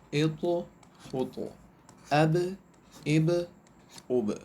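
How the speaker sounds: each syllable such as اج said slowly with a bouncing release; teacher drilling tajweed syllables one by one; qalqala syllable drill. Shown as a demonstration. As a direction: recite اقو، ایقو، اوقو with a clear echo on the stopped letter. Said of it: "ان دونوں کو پڑھتے ہیں".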